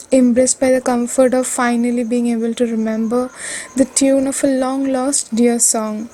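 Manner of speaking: measured, deliberate poetry reading; poem recitation. Acted. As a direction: recite your own poem phrase by phrase. Recites her own poem.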